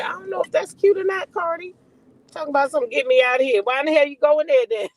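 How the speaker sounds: mock-scold her with sass; sassy retort. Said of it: "I said".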